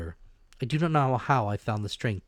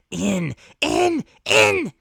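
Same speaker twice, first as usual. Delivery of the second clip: each In louder and higher, a frenzied yell; shouted command; 14 semitones higher, 12 dB louder, much slower than usual. Acted. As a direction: whip them through the door with each shout. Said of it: "he shouted".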